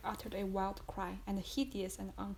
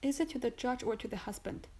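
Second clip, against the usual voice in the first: stammering; 3 semitones higher than usual. Acted. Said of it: "stammered Madame de Villefort".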